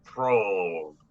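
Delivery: slow, theatrical in-character curse; dramatic curse. Acted. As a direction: drag out each word like a grumpy wizard. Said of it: "I'm going to say".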